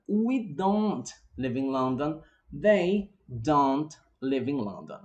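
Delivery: slow, careful English drill; unhurried teacher drill; slow model sentences. Shown as a demonstration. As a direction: model each sentence slowly for students.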